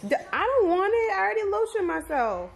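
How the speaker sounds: high, quick pretend dog voice; voicing the dog. Owner voicing the dog's refusal, high whine. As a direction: speak for the dog, whiny and high.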